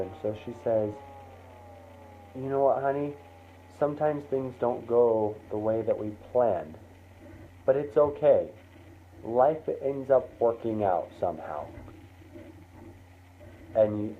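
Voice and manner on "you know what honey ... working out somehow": gentle, mildly consoling mom; trying to be nice. Acted. Mom doesn't wanna hurt kid, gently supportive. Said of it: "your mom's trying to be nice".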